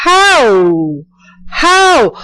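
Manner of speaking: how, bajando y luego subiendo; Chinese tone demo. Shown as a demonstration. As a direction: drop the pitch, then lift it sharply. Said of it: "bajamos el tono y volvemos y lo subimos".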